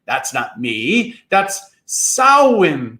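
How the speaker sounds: slow, drawn-out cry from the fog; cried out. A narrator's reading. Mounshroud cries from the fog, slow and drawn out. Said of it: "cried the voice in the fog".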